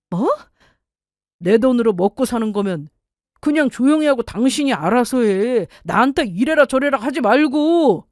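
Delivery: irritated husband laying down the law, pitched high; scornful, bossy husband's rebuke; domineering husband. Acted. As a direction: shut your wife down in a put-on voice. Acted husband ordering wife.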